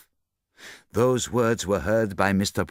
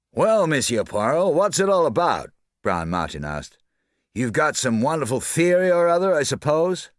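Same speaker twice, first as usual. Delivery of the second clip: raised, louder, impatient demand; impatient loud challenge; 7 semitones higher, 4 dB louder than usual. A narrator's reading. Martin challenges Poirot, loud and impatient. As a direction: press him hard.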